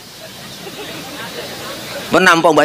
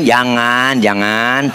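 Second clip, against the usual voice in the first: gentle refusal; 3 semitones lower, much slower than usual. Acted. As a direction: hold him back gently. Prophet restrains again. (Nabi menahan Jibril dengan lembut dan rendah)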